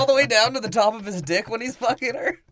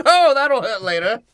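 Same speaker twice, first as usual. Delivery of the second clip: mock whimper; 4 semitones higher, 6 dB louder than usual. Voiced pained character line.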